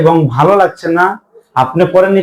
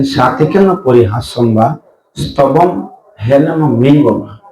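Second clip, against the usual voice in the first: verse recitation; 3 semitones lower, slower than usual. Acted.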